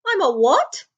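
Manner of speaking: high, breathless disbelief; astonished boy on hearing he's a wizard; gasped. A narrator's reading. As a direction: gasp the question. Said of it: "gasped Harry".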